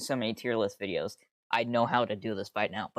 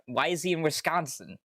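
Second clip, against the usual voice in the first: a mildly raised, puzzled ask; puzzled question; 5 semitones higher than usual. Real, not acted. Streamer puzzling over Trent being in Wisconsin, mildly baffled. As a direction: wonder aloud why he's there.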